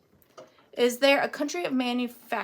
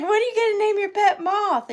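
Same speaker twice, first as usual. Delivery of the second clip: much higher English mum voice; high put-on English accent; 9 semitones higher, 4 dB louder, faster than usual. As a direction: imitate an English mother asking her little boy. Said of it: "They're from England".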